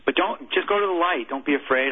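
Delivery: high, emotional reassurance; choked up. Real, not acted. Chaplain comforting a dying soldier as he remembers it, choked up. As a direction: start high with emotion, then ease down.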